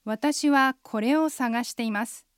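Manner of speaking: 私はこれを探しています said slowly, word by word; slow it right down for the learner; slow and clear. Shown as a demonstration. Host models the line slowly for listeners. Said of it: "ゆっくり発音するので".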